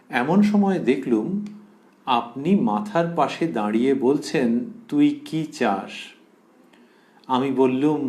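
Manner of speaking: slow, measured devotional narration; scripture reading aloud. Acted. Monk tells Mother of weeping in the shrine, slow measured reading. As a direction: read it phrase by phrase, with pauses.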